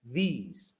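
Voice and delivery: THESE rhyming with "please"; pronunciation model. Shown as a demonstration. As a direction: say THESE with a long "ee", falling. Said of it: "Se pronuncia igual".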